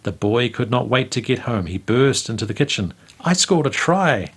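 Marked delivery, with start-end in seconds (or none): 3.2-4.3 put-on a boy bursting in, thrilled and higher; excited shout. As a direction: call out the news with glee.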